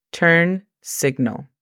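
"Turn signal" said slowly, "turn" with no vowel before the r; slow, clear teacher model of "Turn signal"; careful model pronunciation. Shown as a demonstration. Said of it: "Observa cómo no damos lugar a vocales".

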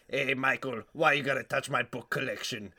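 put-on voice of an aggrieved book collector; comic grumbling oddball; silly character voice. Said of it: "this guy who talks like this".

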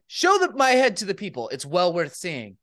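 Anchorman voice. Retold or imitated. Friend reads the last words in a mild Anchorman voice. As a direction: read it like a self-important anchorman. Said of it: "in the Anchorman voice".

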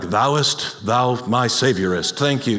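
lightly mock-archaic, low solemn intoning; a hint of stilted old Bible speech; King James English. Churchgoer thanking the Savior in mock King James English. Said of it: "or King James English".

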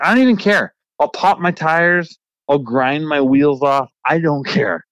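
slow exasperated give-up voice; fed up. Retold or imitated. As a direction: spit it out like you're past caring. Fed up, ready to wreck tires.

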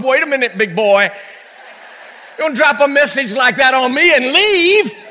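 grab his sleeve and protest, half-joking; hammed-up demand; mock indignant. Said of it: "clutching at that angel's robe".

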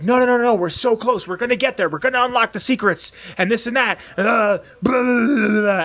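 the hero begging to stay in; pleading Desmond. Retold or imitated. Desmond begs the scientists, high and frantic. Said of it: "And he's like".

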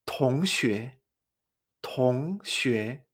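"tongxue" with both syllables rising; repeat-after-me "tongxue", two questioning glides; tones two-two. Shown as a demonstration. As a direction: lift "tong", then lift "xue". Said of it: "también utiliza esta entonación".

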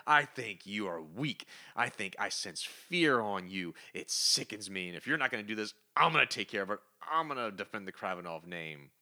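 mock-indignant son, a touch of anger; deliberate, weighty delivery of an acted accusation; retold angry son. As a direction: play an angry son confronting his father, understated. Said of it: "he gets all mad".

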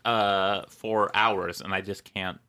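talking through hiccups; hiccuping between words. Real, not acted. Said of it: "I have been hiccuping, for hours".

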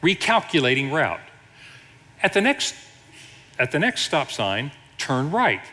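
lightly imitated sat-nav, in separated phrases; a hint of a navigation lady, pausing between phrases; GPS voice. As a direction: read out directions like a GPS. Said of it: "And then it says this".

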